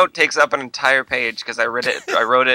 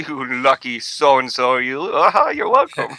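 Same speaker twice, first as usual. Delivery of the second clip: put-on old villain voice. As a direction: ham up a campy old movie villain. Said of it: "I like this voice".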